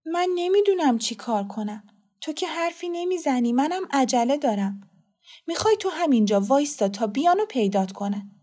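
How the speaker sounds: high-pitched, weary helplessness; tired, at a loss. Acted. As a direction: give up on a silent child, pitched high. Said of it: "زن خسته شد و گفت". (خسته و درمانده، با صدای زیر)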